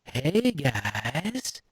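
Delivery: choppy, broken-up greeting; Chopper effect. Shown as a demonstration. Streamer demonstrating an annoying effect, chopped-up drawn-out greeting. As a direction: sound chopped up by a soundboard effect. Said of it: "one of them's Chopper".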